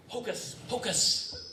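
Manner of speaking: slow breathy magic incantation; kids party magician. Acted. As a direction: draw the spell out slowly. Magic word with flourish.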